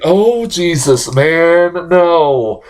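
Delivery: drawn-out groaning disbelief; mock-despairing reaction; exasperated dismay. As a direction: groan it slowly, as if dreading it. Acts out dismay at trailer.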